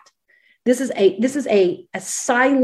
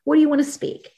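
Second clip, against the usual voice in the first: asking God; 6 semitones higher, faster than usual. Shown as a demonstration. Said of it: "then you say".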